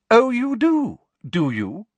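high, loud, affronted teacher; forgetting to whisper. A narrator's reading. Teacher rounds on disagreeing pupil, forgetting to whisper. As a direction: let it leap up in pitch and volume. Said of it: "forgetting to whisper and straightening up".

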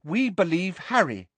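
high, simply stated loyalty; simple sincerity. A narrator's reading. Neville backs Harry before the room, simply. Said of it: "said Neville simply".

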